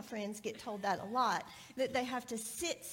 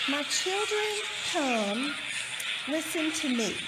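loud reading; 7 dB louder than usual. Shown as a demonstration. Reads scripture over loud noise.

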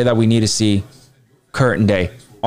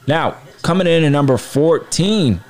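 raised announcer reveal; top ten countdown; 5 semitones higher than usual. Acted. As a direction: build up the next entry.

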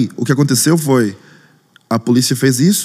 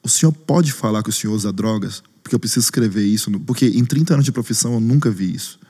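grave policeman; 4 semitones lower, 4 dB quieter than usual. Retold or imitated. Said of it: "olha no fundo do meu olho e fala assim".

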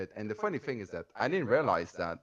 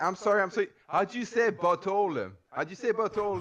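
mock-patient higher repeat; retold pleading question; 7 semitones higher than usual. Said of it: "And I was like".

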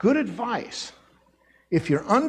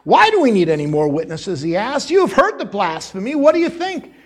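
dramatic outrage; 5 dB louder than usual. Acted. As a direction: rage at the blasphemy. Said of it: "responds dramatically".

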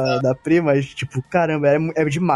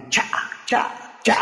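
sword slash sounds; 8 semitones higher, 4 dB quieter than usual. Acted. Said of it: "com a voz do Abu".

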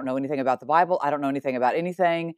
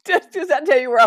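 naive question; 10 semitones higher, 4 dB louder than usual. Retold or imitated. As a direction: play your younger, clueless self. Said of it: "And I just said".

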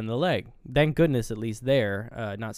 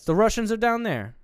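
higher, louder emphatic claim; retold insistence; 10 semitones higher, 7 dB louder than usual. Prisoner to captors across a language barrier, insistent. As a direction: push it out as if they don't understand.

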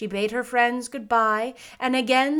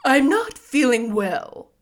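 loud, slow, higher straw-man voice; husky scarecrow; 4 semitones higher, 8 dB louder than usual. A narrator's reading. Scarecrow telling the girl how he feels, husky. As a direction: complain good-naturedly as a husky scarecrow. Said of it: "in a rather husky voice".

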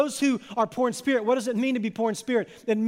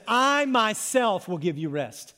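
I drawn out and stressed; emphatic I; slower than usual. Acted. Jesus promising rest to the weary, with an emphatic, lengthened "I". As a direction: lean slowly on "I myself". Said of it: "is emphatic".

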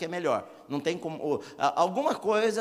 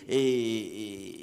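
ordinary delivery

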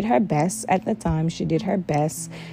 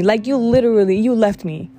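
retold blame; 4 semitones higher, faster than usual. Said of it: "I blamed this woman".

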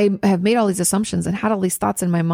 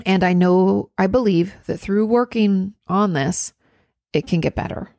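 calm bridge statement. Shown as a demonstration. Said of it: "what if we said".

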